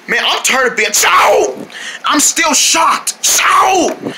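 high yelps of pretend pain; complain, jolted by sudden high yelps; mock pained outcry. Character keeps getting shocked.

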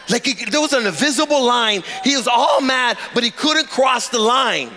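rhythmic, emphatic pulpit refrain; impassioned preaching. Real, not acted. Pastor preaches on God's protecting line, impassioned delivery. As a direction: hammer each repeated phrase home to the congregation.

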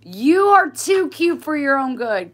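very high, loud squeaky coo. Real, not acted. Owner gushing over her cute dog in a high squeal.

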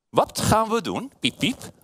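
high, slow questioning little mouse; playful mouse with peeps. A narrator's reading. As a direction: play a squeaking storybook mouse. Voices the mouse in story.

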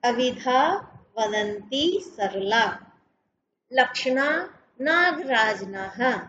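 slow, measured Sanskrit verse recitation; shloka recitation. Shown as a demonstration. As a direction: chant the shloka slowly, line by line. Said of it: "उसमें उन्होंने कहा है". (धीमे स्वर में श्लोक पाठ)

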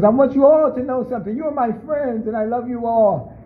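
the dictator sweet-talks his guests before the horror; mock friendly dictator. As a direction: coo it like a tyrant pretending love. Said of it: "Idi Amin goes in the back and says".

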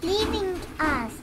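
high, loud frightened cry to dad; panicked. Acted. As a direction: call out in alarm. Child panics, train leaving.

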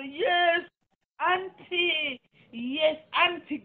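high, loud sing-song yes auntie; mock obedient girl. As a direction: mimic a girl sweetly answering her auntie. Mocking a woman answering auntie.

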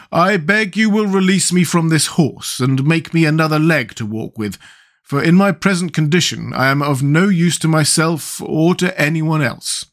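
odd, plaintive pumpkin man; a helpless wooden figure asking for help; Pumpkinhead voice. Acted. Pumpkinhead begging to be freed from the horse, odd voice.

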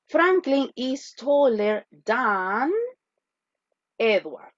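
slow model sentence, words drawn out; slow dictation. Shown as a demonstration. Teacher modeling the comparative slowly. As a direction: dictate it word by word. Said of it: "Yo quiero decir".

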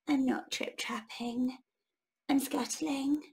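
a small spider, barely there; tiny spider voice. Acted. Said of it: "said a tiny black creature".

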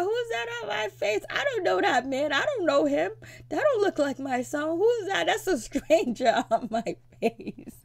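high imitation wail breaking into laughter; hammed-up tearful protest, ending in giggles; mock crying. Mother disowns the face in her tattoo, mock crying. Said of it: "And she's crying".

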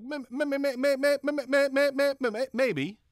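high, loud hammed-up stutter on "may-" repeated; mock stutter. Shown as a demonstration. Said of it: "I just did the same thing".

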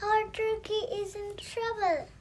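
high rooster voice, shout held back in volume; rooster calling out. A narrator's reading. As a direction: raise the alarm in a high-pitched voice. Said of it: "shouted the rooster".

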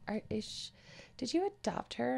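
put-on small, high kid voice; curious kid. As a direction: ask like a nosy classmate. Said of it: "A kid in her class".

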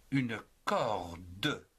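"corde" drawn out as "cor-de", final e sounded; "corde" with a long "cor" and a distinct "de"; two-syllable demonstration. Shown as a demonstration. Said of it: "en deux syllabes".

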